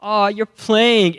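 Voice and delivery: breezy mom. Retold or imitated. Mom smiling, dismissing his drowning.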